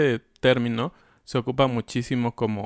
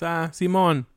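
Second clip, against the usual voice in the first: casual agreement; 7 semitones higher, slower than usual. Shown as a demonstration. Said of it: "con tus amigos es".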